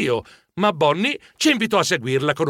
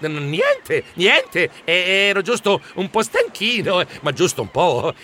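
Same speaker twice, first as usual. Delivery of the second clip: nervous, halting excuse; flustered stammer; 3 semitones higher than usual. Acted. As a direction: stumble over the words, playing it down. Flustered stammered excuse under threat. (scusa balbettata, imbarazzata)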